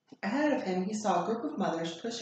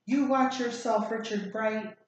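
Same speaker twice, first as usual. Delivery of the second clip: grumbled warning; 3 semitones higher, 4 dB louder than usual. Acted. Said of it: "grumbled the crossing guard".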